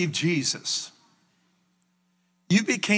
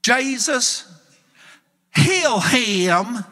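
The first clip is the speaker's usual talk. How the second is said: loud, higher-pitched imitation of a boy praying; bold healing prayer; 6 semitones higher, 5 dB louder, much slower than usual. Boy praying over a blind man, imitated bold call. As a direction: call it out like a command to heaven.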